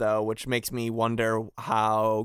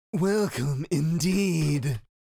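put-on stupid-sounding villain voice, pitched up; 5 semitones higher than usual. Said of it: "Zaldan voice".

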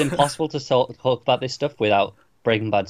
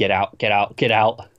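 ordinary talk, nothing marked

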